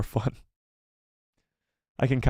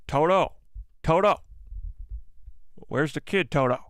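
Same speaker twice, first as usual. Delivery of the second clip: lightly voiced southern bounty hunter with a lisp; Cad Bane impression; 3 semitones higher than usual. Streamer tries a Cad Bane voice for a viewer, lightly done. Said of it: "Cad Bane kinda talks like this".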